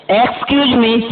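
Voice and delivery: drawn out very slowly, word by word; slow teaching demo; slow model phrase. Shown as a demonstration. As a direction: spell it out slowly for learners. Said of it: "क्या बात करें".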